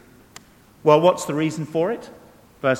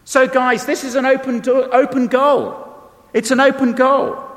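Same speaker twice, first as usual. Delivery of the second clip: higher and louder, driving the point home; rally the congregation; excited preaching burst; rallying preacher; 8 semitones higher, 3 dB louder than usual. Real, not acted.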